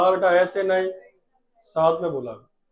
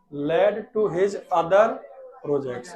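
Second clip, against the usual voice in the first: slow, drawn-out words; slow dictation; much slower than usual. Shown as a demonstration. Teacher dictating slowly to the class. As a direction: stretch each word for the class. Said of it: "आगे सुनो बेटा".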